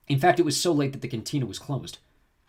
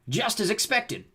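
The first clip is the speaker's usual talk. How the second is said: smug bounty hunter; 10 semitones higher, slower than usual. Acted.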